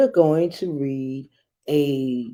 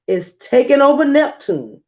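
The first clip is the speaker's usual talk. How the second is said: dismayed shout; 9 semitones higher, 3 dB louder than usual. Acted. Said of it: "the king shouted in dismay".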